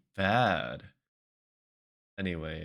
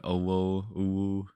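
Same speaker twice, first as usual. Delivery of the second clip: cutesy VTuber voice. Shown as a demonstration. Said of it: "capable of doing an".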